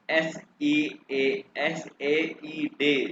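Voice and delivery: letter by letter, very slowly; slow spelling. Shown as a demonstration. Teacher explaining spelling to student, slow and separated. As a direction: spell it out with each letter apart.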